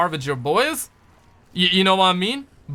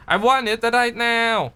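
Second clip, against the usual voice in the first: silly put-on voice; 6 semitones higher, slower than usual. Sudden put-on voice.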